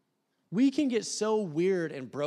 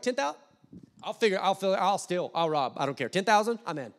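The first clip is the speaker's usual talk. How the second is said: eager mock greed; 3 dB louder than usual. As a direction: jump at the price like a desperate buyer. Eager buyer of a ticket to heaven.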